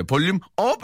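high, punchy exclamation; excited call. Acted. Host acts out a listener's text, high excited call. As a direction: pitch it up and punch the last word.

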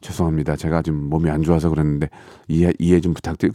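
meek apology. Retold or imitated. Apologizing humbly to an angry neighbor at the door. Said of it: "막 뭐라고 그러면".

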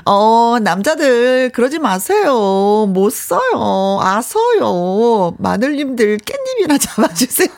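slow, coy whining plea; whiny spoiled pouty drawl. Acted. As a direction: drag it out like a pouting wife. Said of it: "애교스러운 여자가 앙탈 느낌으로만".

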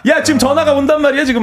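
high-pitched insistent squabbling; mock urgent complaint. 전화선 두고 다툼 흉내. (높은 톤으로 다급하게 따지는 흉내)

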